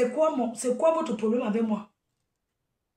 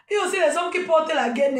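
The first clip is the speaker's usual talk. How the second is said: en riant; 3 semitones higher, faster than usual. Real, not acted. Rit en parlant des gaines.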